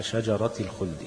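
شجرة ends in kasra, linked into الخلد; kasra ending. Shown as a demonstration. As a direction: say شجرة with a short i ending, shajarati. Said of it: "بالكسر".

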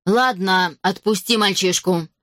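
ordinary delivery, nothing marked

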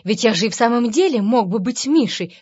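ordinary delivery

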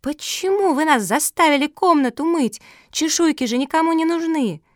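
high, loud outraged cry; dog shouting at the tortoise; indignant shout. A narrator's reading. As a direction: yell the unfairness at her. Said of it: "закричала".

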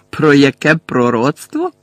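incredulous repeat. Acted. Bellatrix repeats Harry's question, slow and incredulous. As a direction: drag the echo out in disbelief. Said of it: "перепитала Белатриса".

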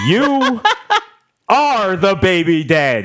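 giggling through the big reveal; laughing announcement. Acted. Host breaks up laughing reading the paternity result. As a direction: announce it while cracking up.

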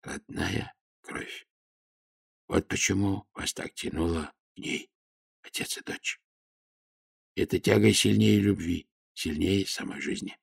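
тихо, медленно, почти шёпотом; печальная мудрость старого слуги; печально. A narrator's reading. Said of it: "печально сказал Гонзалин". (тихо и печально объяснить хозяину)

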